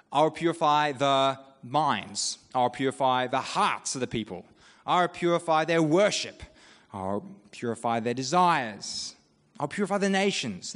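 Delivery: slow, deliberate list; guessed endings. Shown as a demonstration. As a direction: lean on each new word. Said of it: "you'd go".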